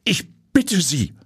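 high, slow begging; drawn-out, high-pitched imploring; desperate plea. A narrator's reading. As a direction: beg in despair, stretching the words. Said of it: "Verzweifelt sinkt Frau Heiling".

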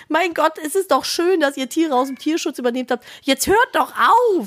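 a mock plea to stop; exasperated inner voice. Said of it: "ich dachte so".

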